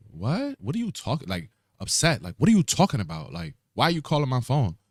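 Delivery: high, confused and upset woman on the phone; upset lady. Retold or imitated. Caller's confused customer, high and upset. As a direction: squeal it out like a startled stranger.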